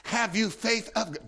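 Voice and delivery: "Have you faith of God?" asked softly with a questioning tune; soft, inquiring question to the listeners; gentle question. Shown as a demonstration. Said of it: "it's in a question form in the Greek".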